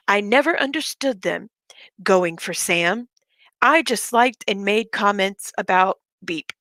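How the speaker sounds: deliberate, theatrical read-out; dramatic reading. Shown as a demonstration. Reading her rival's message aloud to viewers, dramatically. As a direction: lean on phrases as if reciting melodrama. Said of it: "I'm going to be reading it dramatically".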